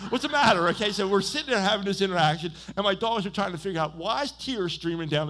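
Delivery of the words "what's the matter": loud, higher voice for a worried dog; imitated concerned dog. Preacher voicing his dogs to the congregation, concerned and comical. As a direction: play the dog asking, pitched up and loud. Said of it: "my dogs are like".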